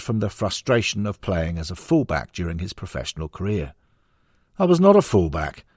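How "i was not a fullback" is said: indignant, pitched up high; mock protest. The speaker in mock protest at the misconception. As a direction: playfully insist you were never a fullback. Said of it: "he says in mock protest".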